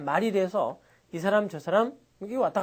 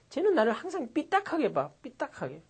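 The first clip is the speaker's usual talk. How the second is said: higher whiny grumble, trailing off softer; sulky complaint; 5 semitones higher, 4 dB quieter than usual. Retold or imitated. Teacher acting a sulky person complaining about bias. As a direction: complain that someone looks at you askew. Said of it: "우리가 이렇게 말하죠".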